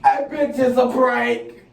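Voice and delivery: slow words through laughter; cracking up at the reveal; laughing. Real, not acted.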